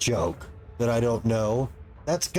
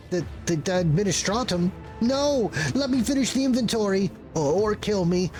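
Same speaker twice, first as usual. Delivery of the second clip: high, frantic and stammering; panicked clerk; 4 semitones higher than usual. Acted. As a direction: plead desperately, rushing.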